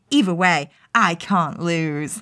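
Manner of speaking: lightly voiced scheming inner monologue; a hint of villainous brooding, slowing on the last words; Char's nasty thoughts. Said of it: "nasty little Char thoughts".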